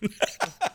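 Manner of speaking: high rolled whistle imitation; trilled whistle noise. Imitating the whistle-blowing lifeguard.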